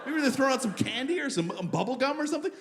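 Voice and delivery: high, giddy parade spectator; naive excitement. Acted. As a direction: act thrilled to see a parade coming. Acting naive parade watcher, getting excited.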